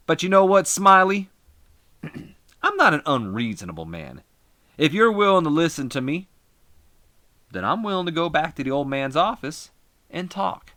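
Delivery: loud, high heel-wrestler shouting on the mic; angry wrestler promo. Acted. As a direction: bark it into the mic like a furious heel. Jarrett addresses Smiley.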